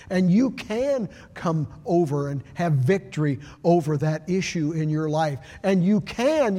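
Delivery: a pastor lifting his congregation; building preaching. Acted. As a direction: stack the promises and drive them home. Preaches a rising list of promises.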